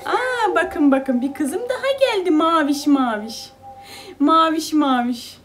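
light up when the other daughter comes in; excited greeting. Real, not acted. (öbür kızı gelince sevinçle)

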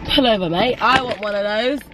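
lightly voiced bloke calling to pull over; a hint of a keen customer shouting at the van; mimicking an excited passerby. Vlogger mimics a passerby wanting ice cream, light mock call.

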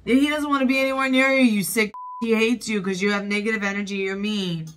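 fast, heated telling-off; angry scolding. Real, not acted. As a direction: lash out at them, rapid and indignant. Scolding film character over puppy.

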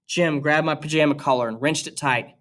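steady, even read-aloud voice; reading a novel aloud to students; story narration. A narrator's reading. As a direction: read the chapter to the class. Teacher reads novel aloud to class.

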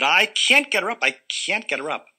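high, loud frantic wail; panicked mother. Acted. Mother telling the family she failed, frantic and loud. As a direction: fret it out in a panic.

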